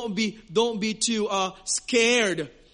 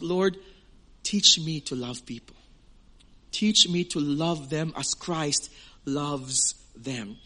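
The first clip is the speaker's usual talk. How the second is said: slow prayer; 6 semitones lower, slower than usual. Shown as a demonstration. Leads prayer.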